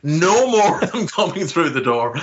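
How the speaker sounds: amused retelling with a laugh. Retold or imitated. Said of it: "So I was like".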